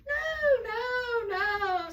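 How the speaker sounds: high, drawn-out soothing noes; kind Santa. A narrator's reading. Santa reassuring the fox, kindly voice. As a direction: start high and glide gently down. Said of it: "said Santa in a kind voice".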